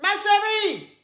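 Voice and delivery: high-pitched astonished question; scandalised double-check; incredulous. Real, not acted. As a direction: ask it as if you can't believe your ears. Host disbelieves caller's answer.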